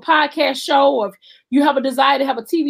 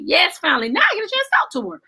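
excited inner thought; 4 semitones higher, faster than usual. Retold or imitated. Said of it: "I was like".

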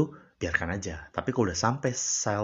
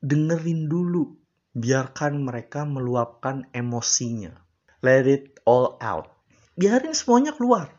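quoting psychologists; 4 semitones higher, 4 dB louder than usual. Retold or imitated. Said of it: "psikolog yang gua tonton itu bilang".

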